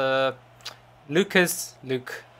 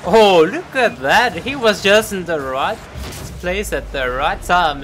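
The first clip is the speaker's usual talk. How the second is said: loud, raised opening that settles as it goes; excited play-by-play; 4 semitones higher, 6 dB louder than usual. Real, not acted. Caster reacting to a goal replay, excited commentary. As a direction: marvel at a well-placed player.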